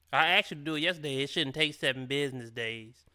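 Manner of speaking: quick, lightly sassy mimic of her line; mock her smart mouth, fast and clipped; slick sassy comment. Host mimics the guest's girlfriend voice, lightly sassy. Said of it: "That's how she gonna say it in the actual relationship".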